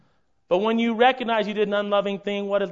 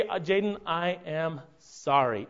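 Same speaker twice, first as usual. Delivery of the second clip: simple apology; 3 semitones lower, 5 dB quieter, slower than usual. Shown as a demonstration. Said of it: "You get to say".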